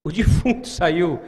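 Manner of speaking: defunto said with a light laugh; chuckling through the word defunto; amused repeat. Shown as a demonstration. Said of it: "A minha tradução tá o defunto".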